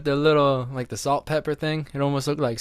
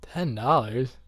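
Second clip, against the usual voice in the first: put-on kid's disbelief; 3 semitones lower, 5 dB quieter, slower than usual. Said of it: "and I'd be like".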